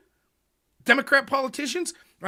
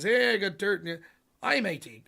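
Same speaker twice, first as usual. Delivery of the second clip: hint of a rough Australian accent; half-hearted attempt at an Australian accent; bad Australian accent. Foreign tipster offering dirt on an opponent, bad Australian accent. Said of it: "I'm doing Australian".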